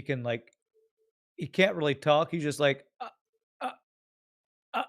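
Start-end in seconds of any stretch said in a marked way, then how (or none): 3.0-4.8 frozen, stammering uh sounds in awe; stammer, too stunned to speak; awed stuttering. Retold or imitated. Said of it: "like, stuttering".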